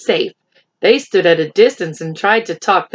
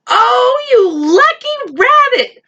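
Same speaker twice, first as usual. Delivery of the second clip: high, gushing mock delight; sly flattery; 4 dB louder, slower than usual. Animals slyly flattering the little rabbit, high gushing. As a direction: gush over him with sly sweetness.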